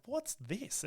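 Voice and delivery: mock partner. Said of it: "my partner's like".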